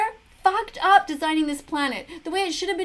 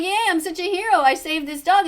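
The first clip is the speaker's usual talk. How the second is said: mocking self-congratulation; 3 semitones higher, 6 dB louder than usual. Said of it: "He's gonna be like".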